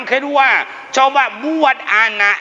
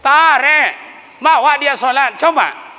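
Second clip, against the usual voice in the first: urgent call; 9 semitones higher, 4 dB louder than usual. Real, not acted. Urging parents loudly.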